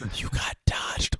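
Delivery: whispered delivery. Acting out the Wendy's drive-thru worker's line as instructed, whispering. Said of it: "You gotta whisper it".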